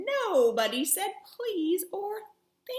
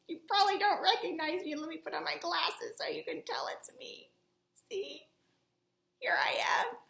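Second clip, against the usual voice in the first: puppet voice; 4 semitones higher, faster than usual. Acted. Puppet host chats to kids.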